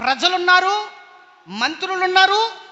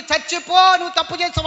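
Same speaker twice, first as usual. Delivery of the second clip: public rebuke; 2 semitones higher than usual. Retold or imitated. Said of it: "రాజసభలో ... ప్రవక్త వెళ్ళి".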